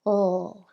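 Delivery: "L" as one sustained, voiced sound; long L sound. Shown as a demonstration. Speech teacher modelling the sound for a child, long voiced "L". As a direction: hold the "L" with tongue tip behind top teeth. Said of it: "I call the L sound a long sound".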